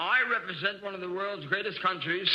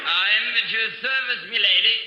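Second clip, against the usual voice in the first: mock British accent; 4 dB louder than usual. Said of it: "watch your accent".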